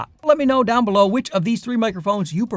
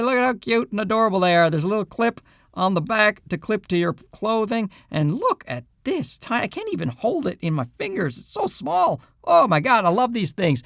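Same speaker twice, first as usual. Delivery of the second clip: excited; 5 semitones higher than usual. Real, not acted. Gushing over cute tiny transmitters.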